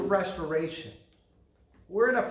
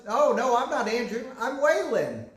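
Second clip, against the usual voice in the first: put-on higher, insistent little boy voice; imitating his son; 6 semitones higher than usual. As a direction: kid correcting dad, pretending to be Waylon. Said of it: "He goes".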